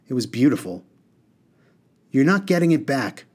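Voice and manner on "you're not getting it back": raised, firm refusal. A narrator's reading. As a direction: stand your ground as a determined boy. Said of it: "Harun said firmly".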